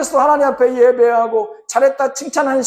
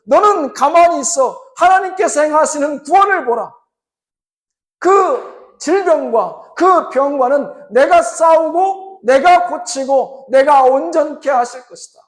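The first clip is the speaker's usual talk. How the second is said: a touch of a raised, slow divine promise; voice of God; 6 semitones higher, 4 dB louder than usual. Acted. God speaking to a patient on the operating table, reassuring.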